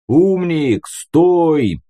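sharp shouted warning; barked command. A narrator's reading. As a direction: bellow to halt him from a distance. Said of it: "рявкнул Леший".

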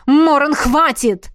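громкий выкрик выше обычного; выкрикни, останавливая. Acted. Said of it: "выкрикнул Родерик". (Родерик кричит Морану прекратить драку)

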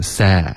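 "say" with a wider eh at the start; wide-open vowel. Shown as a demonstration. Teacher correcting a student's vowel, wide open. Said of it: "嘴巴可以再大一点".

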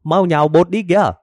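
high, sharp order from a short-tempered wife; high-pitched bossy wife nagging; hot-tempered wife. Acted. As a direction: bark it at the lazy husband. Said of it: "Bà vợ rõ ràng là một người nóng tính".

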